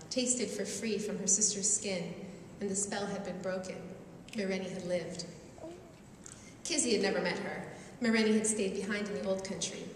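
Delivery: unhurried storyteller reading to an audience; story reading. A narrator's reading. Author reading her own novel to a crowd, storyteller voice. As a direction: read the tale aloud, savoring the images.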